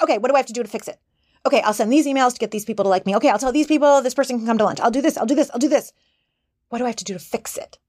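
fast, frantic inner worrier; Nervous Nelly. Retold or imitated. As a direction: rattle off fixes in a nervous rush. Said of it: "Nervous Nelly, she jumps in and she's like".

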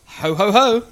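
loud booming Santa ho ho ho; belly-laugh it like Father Christmas; jolly ho ho ho. Pretend.

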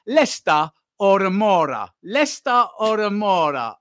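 a hint of hammed-up Italian game show host; mock Italian accent. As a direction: roll out "Leicester or Amora" like a cheesy Italian host. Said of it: "the Italian version of Play Your Cards".

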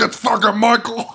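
high, hammed-up yell breaking into laughter; squealed pretend alarm; mock mob scream. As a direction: mimic a panicked crowd, cracking up.

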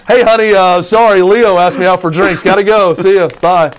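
high, loud, breezy mock voice of a wife ducking out; Kate Middleton voice. Royal wife telling her husband she's off for drinks, chirpy mock voice. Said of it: "And she's like".

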